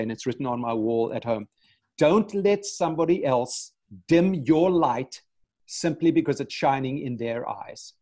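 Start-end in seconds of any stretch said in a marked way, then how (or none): 2.0-7.9 reciting a motto. Real, not acted. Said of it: "try and say to myself every day".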